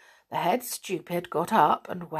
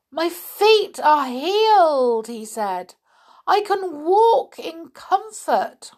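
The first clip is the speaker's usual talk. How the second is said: much higher, louder slow wonder; delighted stupid; 11 semitones higher, 7 dB louder, slower than usual. A narrator's reading. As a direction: marvel at healed feet.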